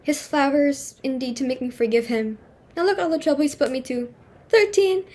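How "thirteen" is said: dismayed cry. Acted. Hostess dismayed at thirteen guests.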